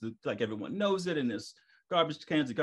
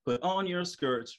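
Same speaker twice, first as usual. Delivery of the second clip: slow self-reminder; 5 semitones higher than usual. Retold or imitated. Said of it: "what I say to myself".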